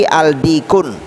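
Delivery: "aldikun" with both l and final n sounded; worse wrong reading. Shown as a demonstration. Teacher shows a doubly wrong reading, "aldikun" with l and n. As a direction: say "aldikun" with al and the -kun ending pronounced. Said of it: "tambah salah".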